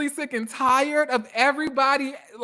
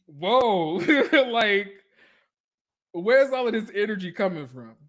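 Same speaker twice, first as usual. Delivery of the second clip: imitating laughing surprise. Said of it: "it was the way she was like".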